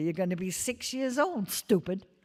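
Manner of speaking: put-on loud stage whisper. Retelling how an older brother spoke into a child's ear: imitating a loud whisper. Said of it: "whispered very loudly into Charlie's ear".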